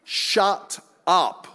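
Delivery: slow, hammed-up telling-off of a friend; comic mock yell ending in a laugh; mock shout. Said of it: "I wanted to shout at him".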